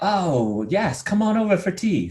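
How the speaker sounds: self-mocking bad Kiwi accent, sliding up very high; hideous Kiwi accent. Guest imitating Edmund Hillary's phone invitation, bad Kiwi accent. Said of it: "really hideous, uh, Kiwi accent".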